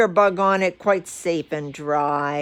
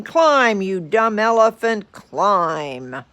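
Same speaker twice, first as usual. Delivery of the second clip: yelling; 3 semitones higher, 4 dB louder, slower than usual. Acted. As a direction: shout him up the hill. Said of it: "kept yelling".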